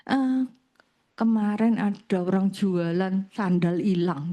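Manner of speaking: mildly imitated grumble, drawn out; menirukan gerutuan. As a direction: grumble it slowly, as if behind someone's back. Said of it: "dia ngedumel, tahu ya ngedumel". (gerutuan tiruan yang pelan temponya)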